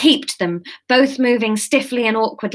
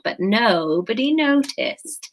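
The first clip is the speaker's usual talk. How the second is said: whispering; slower than usual. Real, not acted. Dramatic reveal aside.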